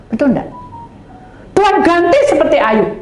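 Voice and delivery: ordinary talk, nothing marked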